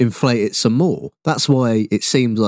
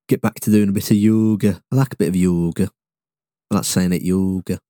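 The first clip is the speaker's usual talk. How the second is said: put-on playful northern English accent; mock northern English lilt; 4 semitones lower than usual. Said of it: "Like I'm from north".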